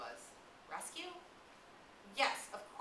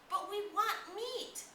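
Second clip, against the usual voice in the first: stubborn insistence; 7 dB louder, much slower than usual. Acted. Jack insisting back stubbornly.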